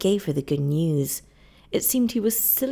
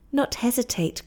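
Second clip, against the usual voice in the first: cried out; 6 semitones higher than usual. Acted. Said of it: "cried Kukua".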